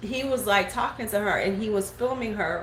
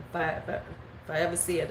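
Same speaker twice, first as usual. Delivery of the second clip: whisper; 4 semitones lower, 7 dB quieter, faster than usual. Real, not acted. Mental note aside, hushed.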